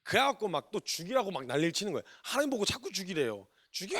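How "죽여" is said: mock shout. Jonah shouting kill me.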